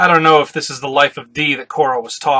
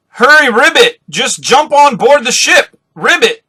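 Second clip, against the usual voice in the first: high, loud swooping cartoon voice; hammed-up cartoon frog shout; frog-like character; 10 semitones higher, 6 dB louder than usual. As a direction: urge them on, drawn-out with ribbits. Frog-like character urges boarding.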